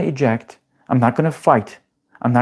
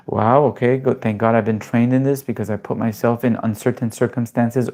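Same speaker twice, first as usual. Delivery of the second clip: calm self-talk; 2 semitones lower than usual. Retold or imitated. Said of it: "they're like".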